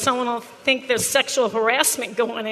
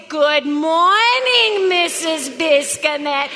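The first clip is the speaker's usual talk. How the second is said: slow, mocking Latvian-ish accent; mock foreign accent; much slower than usual. Shown as a demonstration. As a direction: imitate the students' foreign accent, slowly. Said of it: "Not in your Latvian little accent".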